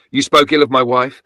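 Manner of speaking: shaking with rage. A narrator's reading. Father confronting wife over his late wife, in rage. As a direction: let the fury shake through the question. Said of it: "My father's voice was shaking with rage".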